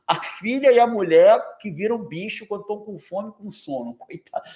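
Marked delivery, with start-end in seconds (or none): 2.0-4.4 whisper. Real, not acted. Pities Fabiano jokingly.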